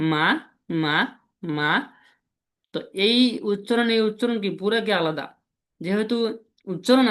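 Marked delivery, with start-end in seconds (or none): 0.1-1.7 each "মা" climbing in pitch; rising tone. Shown as a demonstration. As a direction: glide "মা" up, as if climbing. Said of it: "কেউ উপরে উঠতেছে এরকম". ("মা"-এর সুর উপরে তুলে বলা)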